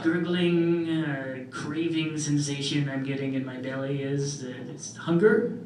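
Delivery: faux-naive wonder about hunger, pitch jumping up; mock innocence. To dinner hosts pushing food, mock-clueless wonder. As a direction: feign never having heard of eating.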